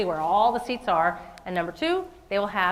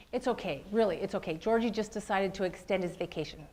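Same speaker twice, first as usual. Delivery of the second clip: softer, soothing dad; reassuring; 6 dB quieter than usual. Retold or imitated. Dad telling son a white lie, softly reassuring. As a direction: gently reassure a child.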